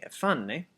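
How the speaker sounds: ephane with the stress on FA; ephane, accent on the A. Shown as a demonstration. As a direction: lean on the middle A of ephane. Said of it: "the accent on the A".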